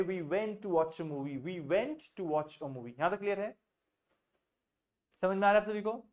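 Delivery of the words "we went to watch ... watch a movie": slow, every word spaced out; slow dictation. Shown as a demonstration. Teacher slowly dictating the English sentence to the class. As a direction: dictate it slowly so they can write. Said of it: "हम film देखने गए".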